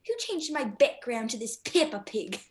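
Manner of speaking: put-on British accent; English accent. Girl repeats her iPod joke on request, British accent. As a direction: deliver it as the English actress playing the Queen. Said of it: "tell him that one line".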